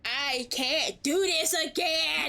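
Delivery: anguished shout. Real, not acted. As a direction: yell it out in real despair. Streamer distraught at cutscene.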